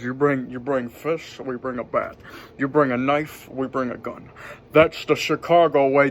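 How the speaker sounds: lightly voiced Scottish film star, low and understated; Sean Connery. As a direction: quote the movie line with a loose Scottish impression. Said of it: "kinda sound like Sean Connery".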